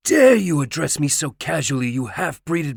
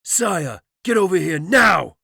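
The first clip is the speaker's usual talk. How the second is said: loud, higher, furious yell; irate command; 10 semitones higher, 9 dB louder than usual. A narrator's reading. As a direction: bark the order at her in rage. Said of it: "commanded as his voice reached new levels of irateness".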